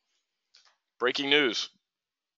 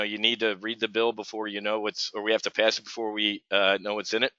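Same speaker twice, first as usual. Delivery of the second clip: mock Nancy Pelosi; 4 semitones lower, 4 dB quieter than usual. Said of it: "I did the whole".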